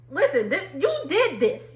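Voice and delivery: laughing through a scolding. Real, not acted. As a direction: scold while cracking up. Laughing while scolding Mia.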